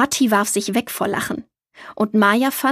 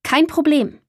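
higher, easygoing reply with a smile; smiling reassurance; 5 semitones higher than usual. A narrator's reading. Borg answers the child's apology about dinner, smiling and reassuring. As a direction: brush off the apology with a light smile. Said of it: "er lächelte ebenfalls".

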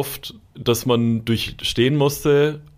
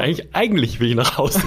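laughing; 10 semitones higher, faster than usual. Real, not acted. Jokes about wanting to go home.

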